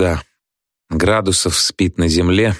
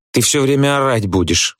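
higher, mildly fearful voice; timid; 7 semitones higher than usual. A narrator's reading. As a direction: venture it with a touch of fear. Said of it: "боязливо сообщает Тютин". (боязливо, тонким голосом)

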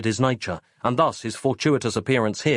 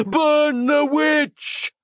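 very slow, much higher, louder scream; mob screaming; 4 dB louder, much slower than usual. A narrator's reading. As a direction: drag out the mob's howl. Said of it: "they screamed in unison".

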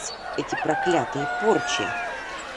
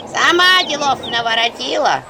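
high, loud wailing reproach; lamenting; 5 semitones higher, 4 dB louder than usual. A narrator's reading. The village laments at the healer, wailing. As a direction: wail the reproach. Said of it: "запричитала деревня".

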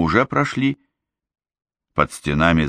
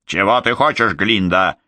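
mild bark; 2 semitones higher than usual. Acted. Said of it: "рявкнула она".

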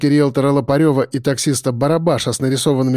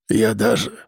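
the voice caves in on these words; a father whose voice gives out mid-sentence; voice breaking; 5 semitones lower than usual. Acted. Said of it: "провалился он голосом".

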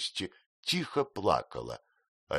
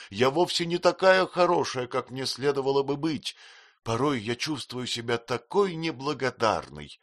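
higher tearful pleading; tearful self-reproach, voice pitched up; bitter crying; 7 semitones higher, 3 dB louder than usual. Acted. Girl blaming herself to her fiancé, higher and tearful. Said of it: "горько плача".

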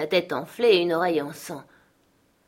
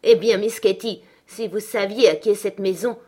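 s'écrier, plus fort, menaçante; Hélène, excédée, menace Catherine; en colère; 3 semitones higher, 5 dB louder than usual. Acted. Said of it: "je m'écriai tout en colère". (éclat de colère, voix plus forte)

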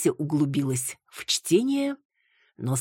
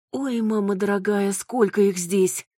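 surprised gasp; 6 semitones higher than usual. Acted. Flood of letters on the screen.

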